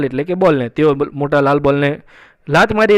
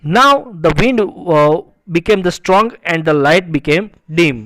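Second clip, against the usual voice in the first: slow, measured English reading; story read-aloud; much slower than usual. A narrator's reading. Teacher reading a story sentence to students, slow read-aloud. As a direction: read each phrase out slowly and deliberately.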